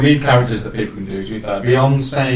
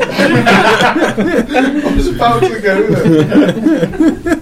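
laughing; 9 semitones higher, much slower than usual. Real, not acted. Laughing high.

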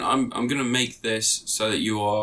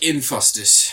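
mocking mispronunciation; 5 dB louder, much slower than usual. Mocking the game name.

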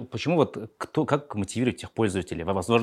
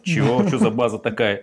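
indignant surprise; 5 dB louder than usual. Retold or imitated. Acting out a cold-call scene.

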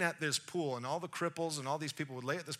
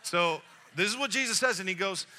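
ordinary delivery

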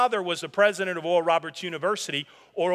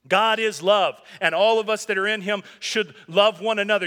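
ordinary talk

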